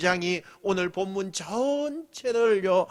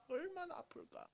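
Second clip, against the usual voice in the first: faint repeat; 10 semitones higher, 21 dB quieter than usual. Shown as a demonstration.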